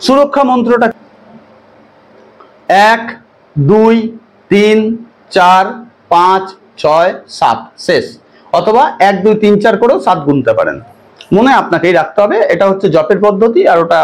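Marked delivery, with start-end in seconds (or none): 2.9-8.0 slow deliberate count; counting slowly. Shown as a demonstration. Priest counting seven repetitions slowly for viewers. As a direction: count out each number slowly. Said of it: "আস্তে আস্তে বলছি".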